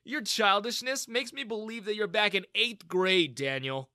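a touch of smug mockery; lightly smirk back at the bully; young man smirking back at his tormentor. A narrator's reading. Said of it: "I smirked".

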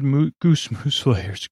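laughing at a tongue slip; slow down and chuckle over the botched words; amused stumble. Real, not acted. Tripping over praise for the mousse layers, amused.

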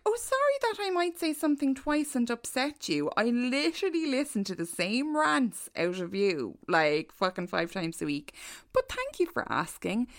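mock apology, dripping sarcasm; sarcastic reply. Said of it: "So I was like".

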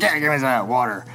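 lightly voiced old roadie; a hint of an old hippie character. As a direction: imitate a weathered old-timer accepting help. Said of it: "he talks like this".

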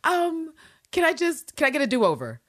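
high, hesitant plea easing down; sheepish plea. Acted. Ann Walker begging a do-over, sheepish. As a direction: ask meekly for another chance.

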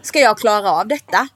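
high, loud panicked wail; panicked cry. Retold or imitated. Pregnant mother wailing to Rasmus in panic. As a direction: burst out high and loud in mock despair. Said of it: "jag bara".

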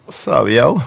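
lightly voiced Miami street greeting; Miami slang. Shown as a demonstration. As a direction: toss off a casual Miami "yo", loose and broken. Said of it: "You know, like".

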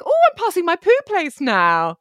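bright alarmed thought spoken aloud; sudden realisation. Retold or imitated. Acting her own inner voice.

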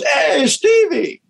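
high, slow, drawn-out hey Stevie; slow greeting. Retold or imitated. Blind Jeff greeting Stevie from the street, slow drawn-out. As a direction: stretch the greeting, knowing who it is. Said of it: "And he goes".

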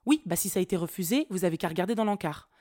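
mock-annoyed town hall clerk; employée hargneuse. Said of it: "elle avait mangé de la vache enragée". (agente de mairie énervée, imitée)

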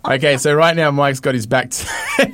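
laughing through play-by-play; giggly commentating; laughing commentary. Real, not acted. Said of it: "You guys commentate".

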